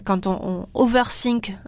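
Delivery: "overthink" said with a French accent, slow; "overthink" in French-accented English, drawn out. Real, not acted. Podcast host apologising for her French accent, says "overthink" slowly. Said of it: "désolée avec mon super accent français".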